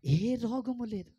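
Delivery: very slow declaration; slow, emphatic model line; slow confession. Shown as a demonstration. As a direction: lead the repeat slowly. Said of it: "పలకరే అమ్మా".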